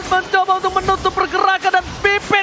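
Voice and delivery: excited play-by-play. Real, not acted. Hype teamfight play-by-play.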